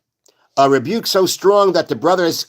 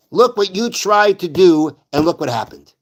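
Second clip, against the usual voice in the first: tough rebuke. Retold or imitated. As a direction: lean on every word as a rebuke. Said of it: "That's rebuke".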